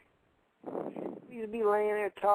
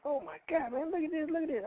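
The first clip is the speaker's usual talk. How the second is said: high, hushed urgent retelling; alarmed brother; 7 semitones higher, 6 dB quieter than usual. Retold or imitated. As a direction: softly imitate a startled boy. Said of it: "My brother was like".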